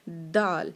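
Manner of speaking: دال with tongue on the front teeth; Arabic daal. Shown as a demonstration. Teacher models دال. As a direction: dental دال like تا. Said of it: "اسی طرح سے نکلے گا".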